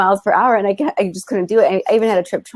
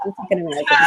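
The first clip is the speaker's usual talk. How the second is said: higher-pitched quote through laughter; imitating laughing locals; 7 semitones higher, faster than usual. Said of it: "they're just, like, laughing at us".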